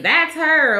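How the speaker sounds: imitating a yell into the crowd; retold yell. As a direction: fling it at the stands as a mild mock yell. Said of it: "Shannon just starts yelling at her".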